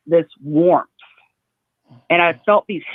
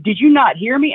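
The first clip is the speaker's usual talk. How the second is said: mild mock scream, higher-pitched; retold scream; 5 semitones higher, 4 dB louder than usual. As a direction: raise the pitch as if screaming to be heard. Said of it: "And I was screaming".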